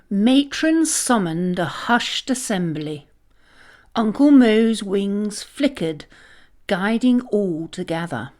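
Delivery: ordinary delivery, nothing marked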